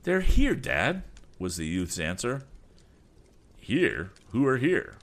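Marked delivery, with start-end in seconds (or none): 0.0-1.0 high, loud urgent warning; alarmed call. Acted. Alarmed son calls to father. 3.6-4.9 surprised. Acted. Father startled by news.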